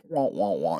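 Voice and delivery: imitating muffled wah-wah talk; garbled adult voice, mimicked as wah sounds; Charlie Brown's teacher. Describing his damaged ear, mimicking muffled speech. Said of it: "sounds like Charlie Brown's teacher".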